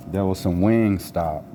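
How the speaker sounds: talking around a cigarette; cigarette in mouth. Real, not acted. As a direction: lips held round a cigarette. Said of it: "I have a cigarette in my mouth".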